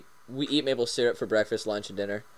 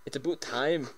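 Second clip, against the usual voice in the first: Canadian accent; 5 dB quieter than usual. Shown as a demonstration. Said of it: "You sound Scottish".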